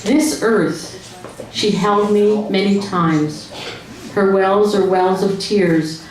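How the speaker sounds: slow, measured recital of a sad poem; poem reading. Acted. Wife reads a poem from the book to the audience, slow recital. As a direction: read each line slowly to the room.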